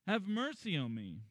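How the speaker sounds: crying out to Jesus for mercy; calling out. Retold or imitated. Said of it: "he called out".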